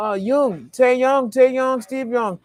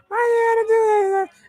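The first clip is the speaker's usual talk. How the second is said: laughing it out fast and even higher; 11 semitones higher, faster than usual. Real, not acted. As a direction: blurt it again while cracking up. Repeats line, breaking into laughter.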